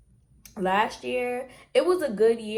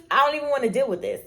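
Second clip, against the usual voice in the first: fed-up whine; 6 semitones higher, 6 dB louder, much faster than usual. Retold or imitated. Acting out procrastinating student.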